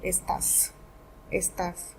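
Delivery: estás stressed on the á; "estás" with the weight on its accented A; stress on final syllable. Shown as a demonstration. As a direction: say "estás" leaning on the last syllable, es-TÁS. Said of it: "we have to give a stress".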